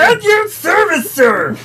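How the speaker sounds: high, slow servile sidekick voice; eager little henchman, drawn out; Pain and Panic voice. Retold or imitated. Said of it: "I kinda wanna talk like that".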